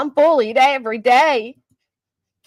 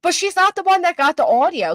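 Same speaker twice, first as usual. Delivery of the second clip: higher and louder, pressing on "one"; insistent repeat; 8 semitones higher, 4 dB louder than usual. Real, not acted. Host repeats her point to chat, insistent and louder. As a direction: push the point through the interruption. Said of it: "let me speak".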